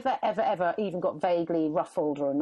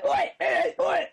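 imitated catcall; 9 semitones higher, 4 dB louder, slower than usual. Imitating shouting strangers.

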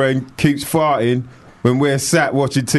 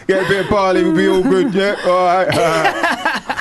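higher, chirpy cockney mate voice; lightly voiced cockney mate inviting Jez to the pub; cockney geezer; 6 semitones higher than usual. Answering listener as cockney mate.

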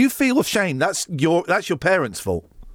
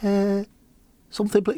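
higher-pitched imitation of the newsreader; Joe; 4 semitones higher than usual. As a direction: have a go at mimicking a colleague. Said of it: "How would I do Joe's voice?".

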